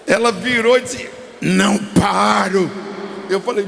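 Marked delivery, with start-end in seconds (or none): 1.4-2.7 slow, drawn-out growled refusal, imitating a demon; gruff demon voice. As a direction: imitate a possessed woman's gruff voice. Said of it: "quando ela falou com aquela voz grossa".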